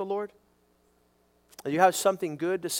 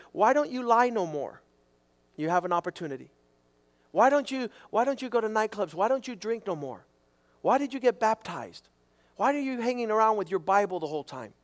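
mock questioner; 4 semitones higher than usual. Preacher voicing nosy questioners.

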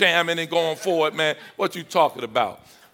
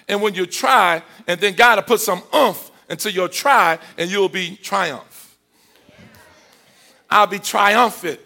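raised, emphatic sermon delivery; preaching; 4 semitones higher, 6 dB louder than usual. Real, not acted. Preacher telling the church what God adds, emphatic preaching. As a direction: drive each phrase home to the congregation.

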